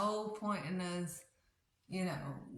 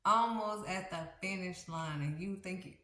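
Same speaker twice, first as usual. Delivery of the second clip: gently urging God; 4 semitones higher, 3 dB louder than usual. Acted. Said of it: "And God is like".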